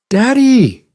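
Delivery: put-on very high, drawn-out child's protest of Daddy!; whiny protesting little girl. Daughter protests being sent to brush again, high whine. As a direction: whine Daddy! like a caught kid.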